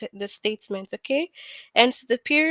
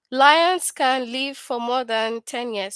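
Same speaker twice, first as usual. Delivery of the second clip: slow example read; slower than usual. Shown as a demonstration. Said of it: "telling us something".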